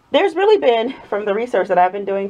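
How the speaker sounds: breathy through a mask; heavy breathing. Real, not acted. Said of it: "sorry for the heavy breathing".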